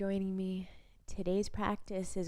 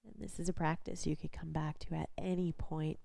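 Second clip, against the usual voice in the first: guided body scan. Real, not acted. Instructor leading a lying-down body scan, calm guided practice voice. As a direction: guide gently with long pauses between instructions.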